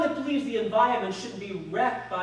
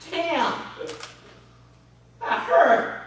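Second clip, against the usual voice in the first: pained yell; 7 semitones higher, 7 dB louder, much slower than usual. Acted. Stabbed with a fork.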